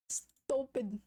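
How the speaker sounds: whispered "stupid" under the breath; voiceless whispered aside. Real, not acted. Muttering self-insult after a laugh.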